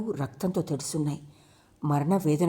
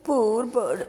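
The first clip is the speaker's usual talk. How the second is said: a touch of heartfelt pity; sadly; 6 semitones higher than usual. A narrator's reading. Sabari over the dead bird, mildly sorrowful. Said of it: "తన ధోరణిలో అన్నది శబరి బాధగా".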